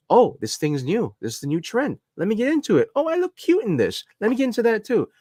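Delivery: airy, sing-song trend-follower voice, jumping way up on the cute line; mocking a bandwagon cosplayer; mock trend chaser. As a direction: parody a shallow fan discovering a new trend. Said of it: "It's a lot of people that".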